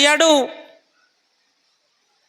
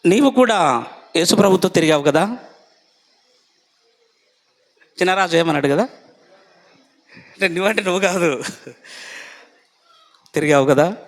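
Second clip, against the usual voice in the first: lower, prying question; accusing bystander; 8 semitones lower than usual. Acted. Servant accusing Peter of following Jesus, low and prying. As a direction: needle him with a lower voice.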